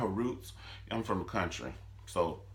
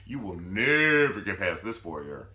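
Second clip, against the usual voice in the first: sassy Candace. Retold or imitated. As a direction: draw out the foyer line with attitude. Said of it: "And Candace like".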